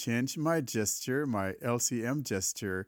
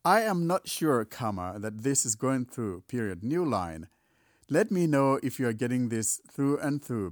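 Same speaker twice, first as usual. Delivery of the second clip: dictating. Shown as a demonstration. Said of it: "I'm gonna keep on dictating here".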